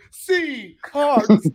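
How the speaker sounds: re-enacted two-part team shout; yelled out. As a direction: call it out to interrupt. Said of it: "I would just yell out".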